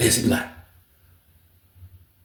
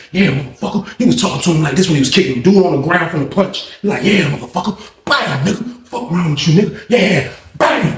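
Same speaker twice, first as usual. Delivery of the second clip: imitated taunt; 3 semitones higher than usual. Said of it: "That's how them shit was sounding".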